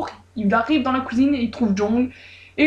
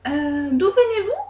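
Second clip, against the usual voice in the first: question hésitante; 7 semitones higher, slower than usual. A narrator's reading. Mère hésitante, aiguë.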